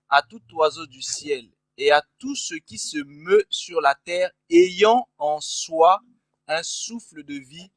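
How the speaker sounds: slow, solemn Bible reading; scripture reading. Acted. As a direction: read the verse slowly and formally. Reads Bible verse aloud.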